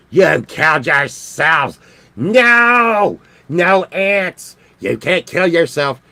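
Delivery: hammed-up dismayed cry at the ants, drawn out; mock outrage. Scolding the ants that killed themselves, mock outrage.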